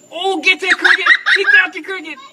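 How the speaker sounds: high, loud, laughing cheer; excited cheering. Real, not acted. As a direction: cheer the bird on gleefully. Bird catches cricket.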